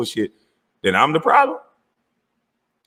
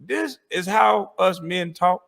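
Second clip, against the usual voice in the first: sarcastic; 4 semitones higher, slower than usual. Real, not acted. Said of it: "'cause I don't talk like this".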